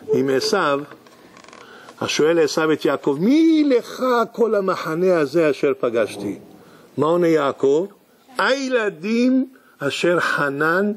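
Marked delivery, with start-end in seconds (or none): 3.2-6.4 slow scripture recitation. Acted. Esau asks, verse recited. 8.4-10.9 very slow recitation. Acted. Jacob answers, verse recited.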